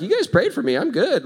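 high, loud, excited reply; acted elated assurance. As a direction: imitate someone thrilled and waving off concern. Acts healed patient brushing off concern.

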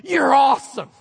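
loud, laughing over-the-top cheerleading; gushing praise. Retold or imitated. Caller gushing praise at the pastor, loud and laughing. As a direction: hype him up like a proud fan. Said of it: "somebody's like, you know".

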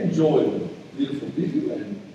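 lightly voiced unruffled captain; soft, easygoing cockpit sign-off, imitated; calm pilot announcement. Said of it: "then he come across in English".

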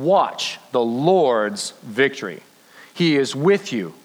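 measured, slowed reading of a Bible passage; scripture reading. Acted. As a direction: read the verse like a promise to the room. Reads the Bible passage aloud.

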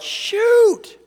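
high, loud drawn-out yell. Retold or imitated. Driver slamming on the brakes, panicked high yell. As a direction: cry it out as you hit the brakes. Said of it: "I yelled".

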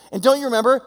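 mock-exasperated Jesus pressing the point. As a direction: push the question harder, almost pleading. Jesus scolding his disciples.

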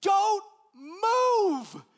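husband yelling to his wife not to move; urgent yell. Retold or imitated. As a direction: shout a warning down the hall. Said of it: "So I yell at my wife".

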